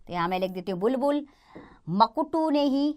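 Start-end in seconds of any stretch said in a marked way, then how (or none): 1.9-2.5 मकुटू said ma-ku-tu, the wrong form; wrong pronunciation. Shown as a demonstration. Teacher to children pointing out the wrong word, slow मकुटू. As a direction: read मकुटू slowly as the mistake. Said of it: "मकुटू नहीं मुकुट होना चाहिए".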